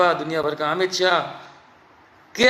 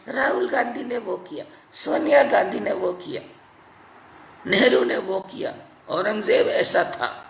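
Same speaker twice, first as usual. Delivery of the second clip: mocking whiners; 4 semitones higher than usual. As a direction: mimic the blame-game chatter. Mocking people who blame others. (नकल उतारते हुए चिढ़ाने वाली आवाज़)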